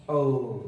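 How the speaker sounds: औ as a long open au glide; British au sound. Shown as a demonstration. Teacher showing students the British sound, open औ. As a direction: stretch out औ, rounded and open. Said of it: "इस तरह से".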